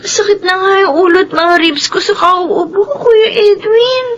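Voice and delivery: tearful, whining complaint about her cough; whiny complaint. Acted. Sick sister whining to her brother, tearful. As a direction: whine at him for sympathy.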